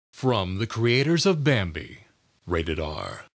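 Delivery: low, ominous rating drop; deadpan the rating in a deep growl; deep trailer voice. Shown as a demonstration. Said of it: "announcer and movie trailer voices".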